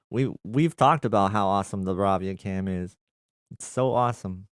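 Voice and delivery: deadpan mock praise for the camera; sarcastic. Real, not acted. Streamer answering a viewer about the Bravia Cam, sarcastic. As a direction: say it with dry sarcasm. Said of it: "I say that sarcastically".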